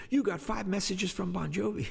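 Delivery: high, lightly voiced excited kid; excited teenager. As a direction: blurt it out like a stunned teen. Teen son announcing the news.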